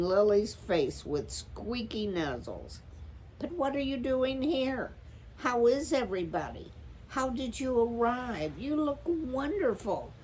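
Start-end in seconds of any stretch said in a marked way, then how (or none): 3.4-10.1 high, quick, breathless questions; overjoyed rush of questions; excited. A narrator's reading. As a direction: tumble the questions out in delight. Joyful reunion with sister.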